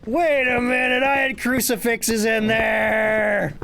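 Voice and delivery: loud, high, slow protest; outraged disbelief. Real, not acted. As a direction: cry out in disbelief at the ghost. Outraged at ghost.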